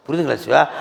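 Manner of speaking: normal talking voice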